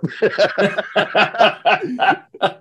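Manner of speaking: high, loud burst of laughing; a long, high, helpless laugh; real laughter. Real, not acted. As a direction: crack up at your own story. Laughs at own retold story.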